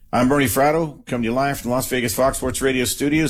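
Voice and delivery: fast radio host sign-off; radio announcer. Acted. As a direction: rattle off the station plug.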